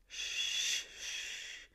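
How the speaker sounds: whispered shh; father hushing his crying boy; soothing hush. A narrator's reading. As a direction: hush him gently.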